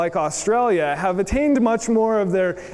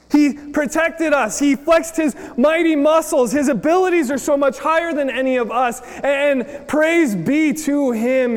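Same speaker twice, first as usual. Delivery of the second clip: worshipful praise; 5 semitones higher than usual. Acted. Preacher voicing worship.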